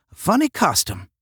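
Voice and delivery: high, lilting Southern drawl; Southern accent, stretched vowels. A narrator's reading. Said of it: "drawled Phil".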